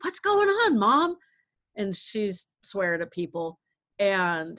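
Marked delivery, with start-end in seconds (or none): 0.0-1.2 husband's greeting. Retold or imitated. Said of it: "he comes over and he's like".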